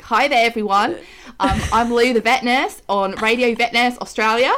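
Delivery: put-on light, half-done Australian accent; jokey Australian radio host voice. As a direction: put on a mild Aussie twang. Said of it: "See, that's quite good".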